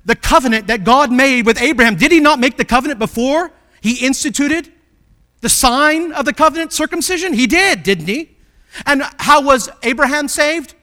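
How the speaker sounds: loud, driving pulpit delivery; forceful preacher, punching the key words; preaching at full force. Real, not acted. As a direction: drive each question home to the congregation.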